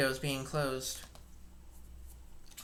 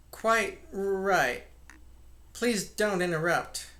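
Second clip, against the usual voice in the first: curious jerking intonation; 4 semitones higher, 4 dB louder, slower than usual. Acted. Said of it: "with a curious jerking intonation".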